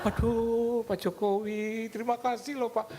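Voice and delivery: high, laughing, overjoyed thank-you; starstruck thanks. Retold or imitated. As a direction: gush to the president in shock. Excited listener answering president. (terima kasih kaget dan girang, suara sangat tinggi sambil tertawa)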